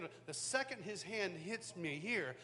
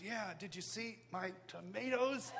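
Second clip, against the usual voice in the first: dad laughing. Retold or imitated.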